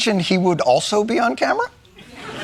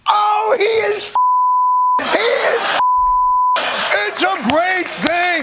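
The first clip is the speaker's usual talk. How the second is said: incredulous outburst; 10 semitones higher than usual. Real, not acted. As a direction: stretch it out in shocked glee. Reacting in disbelief.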